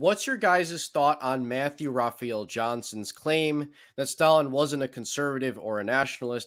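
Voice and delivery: ordinary talk, nothing marked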